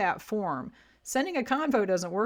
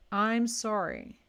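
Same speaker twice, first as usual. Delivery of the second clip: "sorry" the Canadian way, slow and drawn out; Canadian accent; much slower than usual. Real, not acted. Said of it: "I'm saying it the Canadian way".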